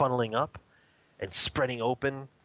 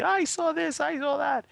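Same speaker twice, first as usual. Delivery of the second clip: much higher, louder, a hammed-up giddy cry; mock excited screaming; 3 dB louder than usual. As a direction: parody a show-off blurting out visions. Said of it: "excited off the top of my head screaming".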